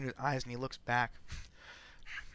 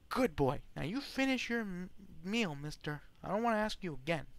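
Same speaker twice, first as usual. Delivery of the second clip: high, patronising praise and a warning; prim wife voice; 6 semitones higher than usual. Acted. Wife praising the seated guest, high patronising voice. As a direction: talk down to him like a child.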